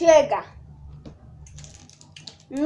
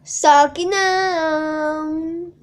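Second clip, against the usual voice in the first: sarcastic; 3 semitones higher, 5 dB louder, much slower than usual. Real, not acted. Sarcastic reversal after "que pena.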